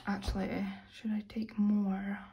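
whispered aside to herself; breathy whisper, wondering. Real, not acted. Asks herself under breath.

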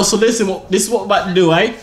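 lightly put-on British accent; British accent mode. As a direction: rattle it off as a casual Brit. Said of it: "British mode activated".

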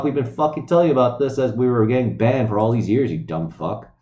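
normal talking voice

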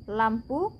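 lampu said in Indonesian, a short final u; lampu, the Indonesian twin of lámpara; Indonesian word. Shown as a demonstration. Teacher gives the Indonesian form of lámpara: Indonesian pronunciation. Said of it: "Aquí decimos".

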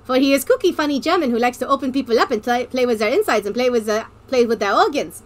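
put-on playful German-accented Medic voice; comic stage-German delivery. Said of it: "I'm gonna be doing a German accent".

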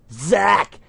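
loud call from far off; from another room. Acted. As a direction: yell it across the house. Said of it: "I heard Grandma yell from the other room".

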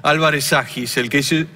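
Argentine politician impression, lightly voiced; Javier Milei impression. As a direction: talk like Milei with a halting "o sea, digamos". Impersonates Milei throughout.

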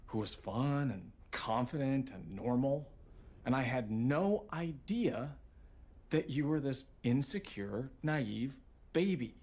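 slow, drawn-out contempt; scornful. Acted. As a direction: stretch each insult out scornfully. Husband insults wife in quarrel.

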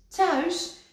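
high, dreamy wonder. A narrator's reading. Kikker to Rad, high dreamy. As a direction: say it longingly. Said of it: "zei Kikker dromerig".

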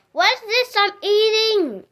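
loud, high amazed question; surprised. Pretend. Character surprised by popcorn.

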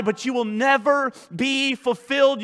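normal talking voice

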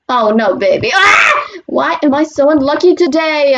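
dismayed shout. Real, not acted. Dismayed at bad luck.

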